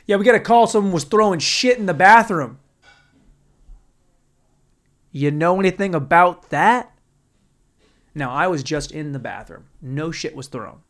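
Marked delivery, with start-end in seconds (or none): 0.0-6.9 cop. Retold or imitated. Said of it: "And the cop goes".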